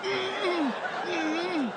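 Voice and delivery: high muffled mm sounds; muffled mouthless hum. Retold or imitated. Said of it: "Neo's mouth in The Matrix".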